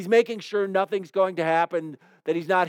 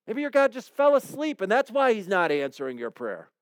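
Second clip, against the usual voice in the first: raised, sarcastic taunting voice; mocking taunt; 3 semitones higher than usual. Elijah mocking the prophets of Baal, sarcastic raised taunt. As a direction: jeer as if the god is asleep. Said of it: "And he says".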